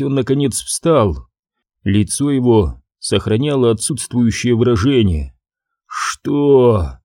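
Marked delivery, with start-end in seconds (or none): none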